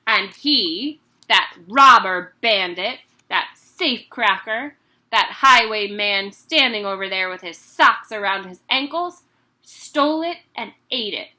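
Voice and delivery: loud ranting headmistress; angry accusation. Acted. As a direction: accuse him of stealing cake.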